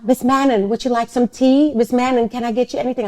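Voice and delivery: high, eager and polite offer; fawning assistant. Retold or imitated. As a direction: pamper her with exaggerated courtesy.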